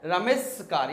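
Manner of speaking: रमेशकार said as one word, s hissing; hissing sound. Shown as a demonstration. Teacher demonstrates the awkward hiss in रमेशकार. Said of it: "hissing sound create हो रहा है".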